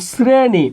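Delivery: শ্রেণী begun with a dental s, "sreni". Shown as a demonstration. Teacher showing students the rule for শ, শ্রেণী with a dental s. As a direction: say শ্রেণী with s, not sh, before the r. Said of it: "এটা দন্তস্ব".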